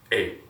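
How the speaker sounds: "A" as a clear open ah; Spanish A. Shown as a demonstration. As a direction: model "A" as a Spanish ah. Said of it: "just say it right".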